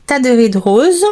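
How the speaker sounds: "Taderie de Rose" said the French way, as ta-de-RIE de ROZE; "Taderie de Rose" in a French accent; French-accented brand name. Real, not acted. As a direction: read the English name "Taderie de Rose" with French sounds, apologetic. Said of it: "Désolée pour mon accent".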